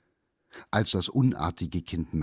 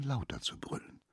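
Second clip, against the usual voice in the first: lauter zu brüllen ganz tonlos geflüstert; flüstere lauter zu brüllen ohne Stimme; whispered; 7 semitones higher, 9 dB quieter than usual. A narrator's reading. Narration, repeated phrase whispered. (lauter zu brüllen leise geflüstert)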